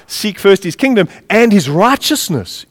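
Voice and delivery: "and" held out with emphasis before "his righteousness"; stress on AND. Shown as a demonstration. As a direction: make "and" carry the added condition. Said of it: "Not just seek his kingdom".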